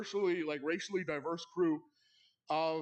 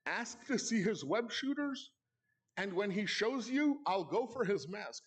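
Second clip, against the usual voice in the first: put-on slow, plotting older brother; scheming whisper-plan; 2 semitones higher, slower than usual. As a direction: lay out the plan slowly, like a little villain. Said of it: "He says to me".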